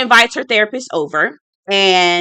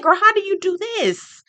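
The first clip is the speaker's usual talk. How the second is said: incredulous; 5 semitones higher than usual. Retold or imitated. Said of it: "I said".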